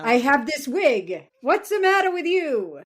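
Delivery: high, loud, huffy actress; indignant actress voice. Retold or imitated. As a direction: toss it off like an offended diva. Voicing Kelly Preston's casting.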